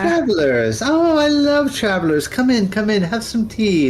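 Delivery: put-on high, sweet old lady welcoming guests; chirpy old crone showing off her town; old woman hostess.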